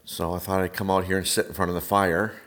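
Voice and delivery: echoey room sound; hollow, echoing room; tin can echo. Real, not acted. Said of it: "if it sounds like I'm in a tin can".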